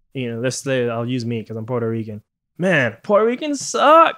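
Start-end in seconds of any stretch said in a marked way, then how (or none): 2.6-4.2 mock offensive guest. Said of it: "Be like".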